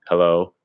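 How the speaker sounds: HELLO with the pitch going down; downward hello. Shown as a demonstration. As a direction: let HELLO drop in pitch. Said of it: "So down".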